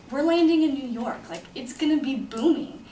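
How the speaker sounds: lightly hyped-up anticipation; retold excitement. Retold hopeful arrival in New York.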